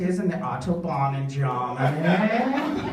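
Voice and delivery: singsong gloating question; lightly voiced smug in-law; mock taunting German. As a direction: tease like a smug know-it-all.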